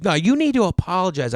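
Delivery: high-pitched mock scolding; imitated yelling demand. Woman ordering the golfer to apologise, mock yell. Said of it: "She's yelling at me".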